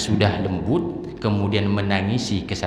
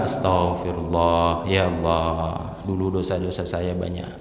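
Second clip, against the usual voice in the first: demo of repentant prayer. Shown as a demonstration. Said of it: "Sambil apa?".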